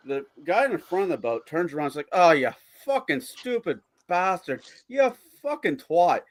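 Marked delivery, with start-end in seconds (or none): 2.1-6.2 exasperated. Acted. Joke character berates his friend.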